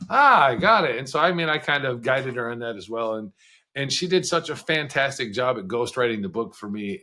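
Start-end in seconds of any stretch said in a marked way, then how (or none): 0.1-1.0 excited wife. Retold or imitated. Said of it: "then she's like".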